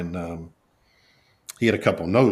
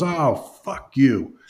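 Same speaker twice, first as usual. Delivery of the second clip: drawn-out, higher-pitched exasperated curse; 4 semitones higher, much slower than usual. Retold or imitated. Fed-up boss cursing his employee, retold with slow exasperation. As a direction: stretch it out slowly in mock exasperation.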